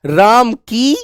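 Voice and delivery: slow, word by word, as a teacher's example; spelled-out slow classroom example. Shown as a demonstration. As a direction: dictate राम की पत्नी सीता थी slowly. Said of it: "जैसे मैं एक example दूं".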